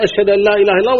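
normal full recitation voice after the hushed one. Shown as a demonstration. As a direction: lift the voice back up for the call. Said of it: "ثم يرفع صوته". (برفع الصوت كالمؤذن)

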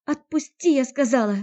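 high, loud panicked shout; Natalya, terrified, screams at Andrey to let go; frightened cry. Acted. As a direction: scream at him to stop, scared. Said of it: "Не на шутку перепугалась Климова".

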